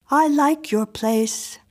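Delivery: put-on high, insistent little girl voice; a strange child demanding entry; eerie little girl. A narrator's reading. Miriam inspects the room.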